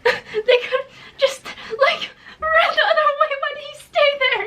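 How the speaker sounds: high, laughing through the words; laughing hard. Real, not acted. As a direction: crack up mid-sentence. Laughing at story logic.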